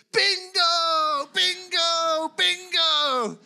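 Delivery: high, very loud drawn-out holler; excited shout. Retold or imitated. Preacher imitating an elderly new Christian excited in church, shouting. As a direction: shout it out like an overjoyed bingo winner. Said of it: "she shouted".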